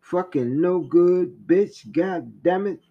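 slowed, furious inner swearing; voice of anger. Acted. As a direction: spit it out as pure fury. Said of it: "Anger thinks".

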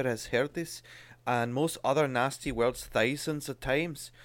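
reading aloud. Shown as a demonstration. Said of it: "should we do read".

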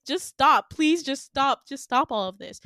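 lightly acted desperate begging; retold sobbing plea. Winter begging her captor, retold pleading. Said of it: "she's like, sobbing hysterically".

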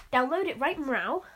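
"mrow" stretched like a cat's meow; "right mrow" with a feline meow. Pretend. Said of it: "'cause cats say mrow".

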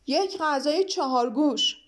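slow, drawn-out call to the servants; mild bellow, stretching each word; roaring order. Acted. Bug summoning the waiters, a slow mock roar. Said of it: "با صدای بلند گفت".

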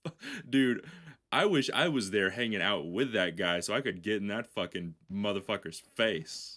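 a touch of faked menace; mock threat. Imagined threat to rule guy.

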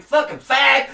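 high, loud hammed-up shout; mock angry yell. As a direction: bellow it like a furious barmaid. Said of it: "she'd be like".

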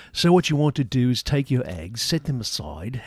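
put-on instructional character voice; weird cooking-show voice. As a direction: play a silly cooking-show host. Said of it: "some kind of weird voice".

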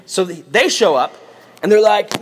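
normal talking voice

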